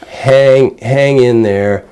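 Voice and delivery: bright, sturdy encouragement; the right way. Shown as a demonstration. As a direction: cheer her on with steady encouragement. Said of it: "don't say it like that".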